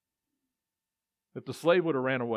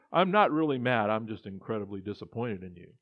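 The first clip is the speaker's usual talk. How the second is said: put-on guilt-trip your child, sweetly; passive-aggressive parent; 3 semitones lower than usual. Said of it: "that passive-aggressive things we do as parents".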